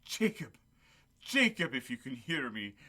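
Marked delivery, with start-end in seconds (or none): 0.0-1.7 high, ringing call of a name. Acted. Scrooge wakes on Christmas morning and calls to Jacob, high and ringing. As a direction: call out to Jacob as if he could answer.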